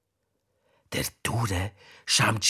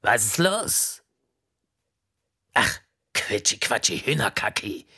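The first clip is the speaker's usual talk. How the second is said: a slow, brusque official on the phone; lightly voiced stern director; busy prison director; 3 semitones higher than usual. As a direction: bark the phone answer like a harried boss.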